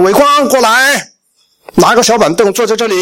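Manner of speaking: retold father beckoning his son; stern father calling. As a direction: call the boy over with fatherly authority.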